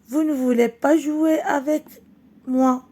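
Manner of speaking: a touch of crying in the voice; tearful child. Acted. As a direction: read Farid's line as a boy close to tears. Farid the crying boy answers.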